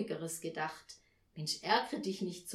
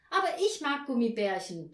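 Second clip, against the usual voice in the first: mild shout, louder than usual; a touch of a boy's protesting yell; child shouting; 3 semitones higher, 7 dB louder than usual. A narrator's reading. Paul objects to his sister, mildly shouted. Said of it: "schrie Paul".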